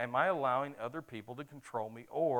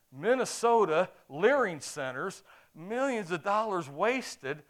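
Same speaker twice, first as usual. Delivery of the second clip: loud, higher, slow angry rant at "Minnesota"; yelling at the phone; 7 semitones higher, 8 dB louder, slower than usual. Retold or imitated. Preacher yelling at his phone over wasted millions, loud and slow. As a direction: bark the words out in slow outrage. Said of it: "I'm yelling at the phone".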